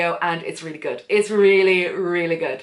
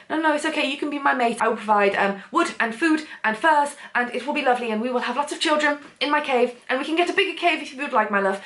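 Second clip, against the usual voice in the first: higher, lightly voiced caveman suitor; reassuring caveman; 5 semitones higher than usual. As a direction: coax her gently, a hint of earnest caveman. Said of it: "he's just trying to, like, help her".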